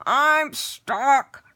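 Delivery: loud, high panicked shout; trapped goblin shouting. Acted. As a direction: yell it, stuck and frantic. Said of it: "the goblin shouted".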